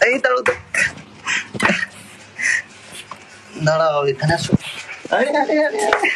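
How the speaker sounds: high, loud calls after a runaway pet; calling out. Real, not acted. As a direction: shout at it to stop. Chasing a pet to stop.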